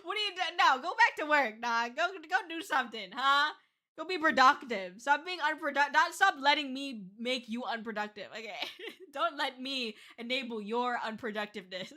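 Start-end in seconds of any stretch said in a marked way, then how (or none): 0.0-7.5 louder mock-bossy nagging; playful scolding. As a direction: jokingly order them back to work. Playfully scolds chat to work.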